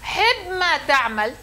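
"حب ما تعمل" spoken slowly, stressing حب with a rising end; quoted saying. Shown as a demonstration. Teacher presents a saying to the class, slowly. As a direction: lay out the saying slowly, leaning on حب. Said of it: "في مقولة".

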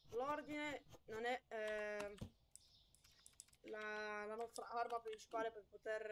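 loud, slow game commentary; projecting over the headphones; talking too loud. Real, not acted. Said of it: "mi sa che sto urlando un po' troppo".

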